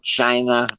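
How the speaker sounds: a light hint of Trump saying "China", drawn out as "Chy-na"; Trump impression. Lecturer imitating Trump for his class, lightly voiced. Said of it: "the voice of Mister Trump".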